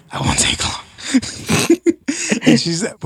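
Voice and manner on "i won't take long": a quick, secret whisper; whispered reply. Retold or imitated. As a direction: whisper it low, with no voice. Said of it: "I was like".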